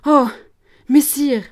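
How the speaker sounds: high, loud shocked exclamation; scandalised. Acted. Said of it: "Jeanne scandalisée". (exclamation scandalisée)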